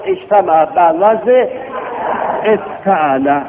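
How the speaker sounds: ejtama said slowly, stretched for the class; slow pattern drill. Shown as a demonstration. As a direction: sound out the pattern. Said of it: "به آهنگ فعله برید". (شمرده برای شاگردان)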